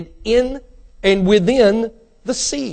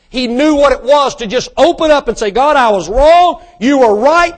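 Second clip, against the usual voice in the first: raised, louder preacher's voice; impassioned preaching; 5 semitones higher, 5 dB louder than usual. Real, not acted. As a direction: drive it home to the congregation. Preaching at full force.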